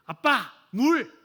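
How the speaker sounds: put-on child calling for water. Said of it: "큰애가".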